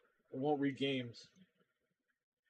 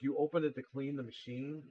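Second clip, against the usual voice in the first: retold disbelieving question, rising at the end; incredulous echo question. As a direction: echo the excuse back in mild disbelief.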